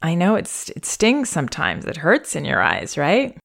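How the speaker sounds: frank, caring parent; honest empathic explaining. Shown as a demonstration. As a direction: tell the baby straight that it stings. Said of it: "I would say in the moment".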